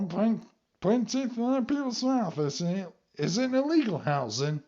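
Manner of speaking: high-pitched, weird wrestler character voice; Danhausen impression. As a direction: imitate an odd theatrical villain, pitched well up until the final word. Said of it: "according to him".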